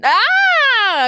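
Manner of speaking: high, loud burst of recognition; sharp surprised ah of remembering; sudden realization. Real, not acted. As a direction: yelp as it clicks. Sudden realization of dialect name.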